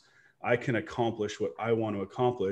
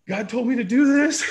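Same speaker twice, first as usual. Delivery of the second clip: high excited insistence; 14 semitones higher, 9 dB louder than usual. Retold or imitated. Retold answer to wife.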